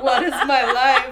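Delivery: hammed-up childhood anguish; retold despair. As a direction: wail it like a tragic kid, half laughing. Acting out her weeping child self.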